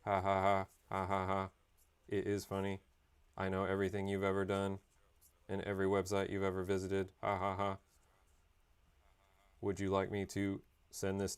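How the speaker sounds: a hint of a smug robot, even and steady; mock AI robot voice. AI mocking its owner Josh, lightly robotic. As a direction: tease like a snooping AI assistant. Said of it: "They're like".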